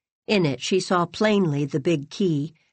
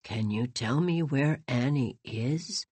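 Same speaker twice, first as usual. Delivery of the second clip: put-on low, soft, slow pleading old voice; old man asking Teddy for his lost Annie; wistful entreaty; 5 semitones lower, 7 dB quieter than usual. A narrator's reading. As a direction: plead gently, longing. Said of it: "entreated mad Mister Morrison wistfully".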